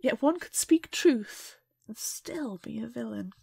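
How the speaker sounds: slow, whispered and grave; whispered serious quote; hushed gravity. Acted. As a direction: breathe it as a solemn secret.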